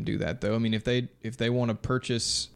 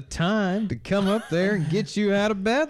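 scolding cult leader; 7 semitones higher than usual. Acted.

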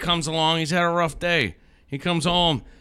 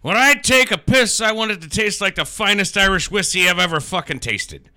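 lightly voiced drunk making a wish; a hint of drunken bluster; hammered drunk; 4 semitones higher than usual. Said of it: "he's fucking hammered".

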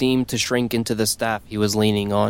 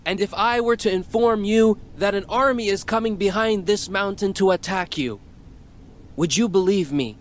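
prophet voice; 8 semitones higher than usual. Acted. Prophet addresses crowd.

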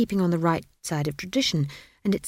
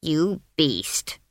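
shocked; 2 semitones lower than usual. A narrator's reading. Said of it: "said Granny, shocked".

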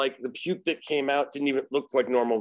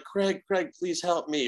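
high, begging plea for help; pleading victim voice; 5 semitones higher than usual. Retold or imitated. Possessed guy begging Craig for help, high pleading voice. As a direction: beg Craig to save you, voice raised high. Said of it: "he would go back and forth".

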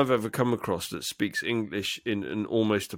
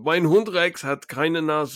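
slightly high, slow German recital; Monty Python joke delivery; 4 semitones higher, slower than usual. Acted. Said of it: "The Monty Python. It was the funniest joke".

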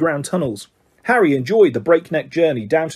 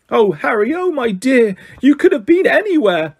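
high-pitched motherly fussing, climbing higher; worried mother's cry, building in pitch; frantic mother; 8 semitones higher, 3 dB louder than usual. Acted. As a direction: fret over a lost boy, voice rising. Frantic mother finds lost boy.

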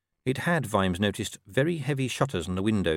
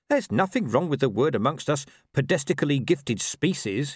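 higher-pitched, self-important dog; Gaspode, defensive; 5 semitones higher than usual. Acted. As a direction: defend yourself as an indignant mutt. Dog defends his word.

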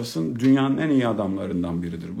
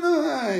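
put-on baby fussing grunt. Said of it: "yapıyor".

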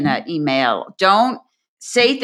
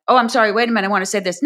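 lightly imitating an apologetic interrupter; a touch higher, hesitant excuse-me; mock apologetic; 4 semitones higher, much faster than usual. Woman in a meeting apologizing before speaking, lightly mocked. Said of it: "women apologize a lot".

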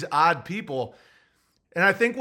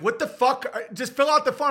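exasperated clerk shout; 9 semitones higher than usual. Retold or imitated. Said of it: "They're like".

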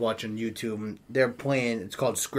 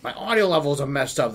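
normal talking voice

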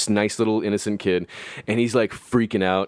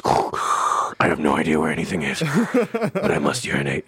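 lower, dazed stoned voice; stoned friend voice; 4 semitones lower than usual. Retold or imitated. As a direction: play him lost and solemn, low. Stoned friend groping to bathroom.

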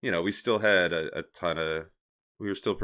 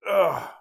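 high groan while stretching; 9 semitones higher than usual. Real, not acted. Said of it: "I'm stretching".

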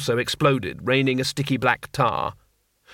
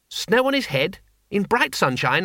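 cheerful call; 6 semitones higher than usual. Acted. Two Flower calling out to the stuck wizard, glad. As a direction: call across the mud, delighted.

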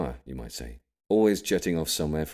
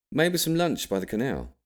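mum suggesting; 9 semitones higher than usual. A narrator's reading. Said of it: "she suggested".

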